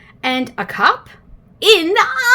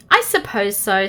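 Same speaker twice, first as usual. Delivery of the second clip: sighing; 3 semitones lower than usual. Acted. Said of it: "sighed Miss Neat".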